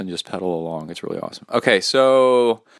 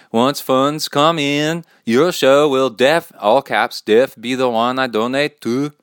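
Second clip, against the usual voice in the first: lightly put-on Swedish accent, higher and singsong; a hint of a mock Swedish accent; 5 semitones higher, 5 dB louder, slower than usual. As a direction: slip into a playful Swedish lilt. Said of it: "I break into Swedish accent every once in a while".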